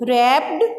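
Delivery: रैप्ड said rapt, W silent; correct pronunciation. Shown as a demonstration. Teacher repeating the word for the class, silent W. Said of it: "यहाँ पे इसको रैप्ड बोलना है".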